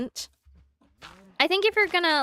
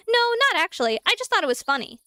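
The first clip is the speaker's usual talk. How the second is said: careless shrug; 6 semitones higher, faster than usual. Retold or imitated. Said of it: "they're like".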